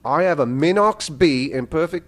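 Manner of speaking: lightly attempted Australian accent. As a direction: read it with a rough Australian accent. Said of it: "do my Australian accent".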